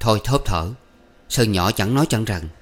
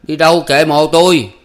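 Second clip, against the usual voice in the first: loud, higher, snappish retort; curt reply; 7 semitones higher, 8 dB louder than usual. A narrator's reading. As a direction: snap back to shut the question down. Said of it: "trả lời giật một".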